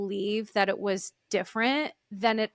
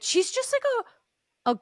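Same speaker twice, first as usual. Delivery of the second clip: gushing; 4 semitones higher than usual. Real, not acted. Gushing praise of a cast member.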